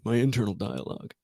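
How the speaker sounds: soft, self-mocking echo; mocking himself. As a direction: repeat it quietly as if it sounds stupid. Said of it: "that sounded really stupid".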